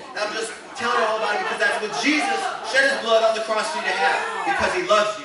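loud, fervent preacher outpouring, building in force; preaching blast. Retold or imitated. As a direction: preach it like it's roaring out of you. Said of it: "it just came out like a blast".

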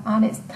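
"Honest" with the H left silent. Shown as a demonstration. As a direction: open "Honest" on the vowel, without any H. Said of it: "hơ cũng bị câm".

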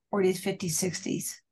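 choking on a sip of water; water down the wrong pipe; coughing up water. Real, not acted. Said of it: "water went down the wrong pipe".

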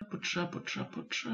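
unvoiced whisper of the name, repeated to herself; whispered muttering. Real, not acted. Scanning her audiobook library for the author, whispering. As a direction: whisper it while scanning the list. Muttering names while searching list.

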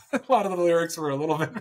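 amused, breaking into laughter while talking; laughing. Real, not acted. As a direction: laugh through the words, rising high at the end. Joking about nonsensical lyrics.

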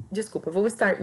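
speech broken by a hiccup; talking through hiccups. Real, not acted. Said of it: "me deu soluço".

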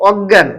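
অজ্ঞান said as "og-gyan", with a doubled g; double g. Shown as a demonstration. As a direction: hold the g long in অজ্ঞান, no j. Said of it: "দুইটা গ". (অজ্ঞান, দুইটা গ দিয়ে উচ্চারণ)

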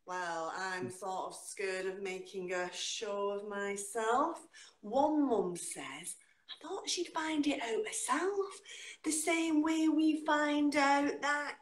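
slow, rhythmic spoken-word delivery with big pitch leaps; dramatic poetry reading with slow, stretched lines; performance poetry. Acted. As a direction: perform the poem to a live room. Performs her poem live.

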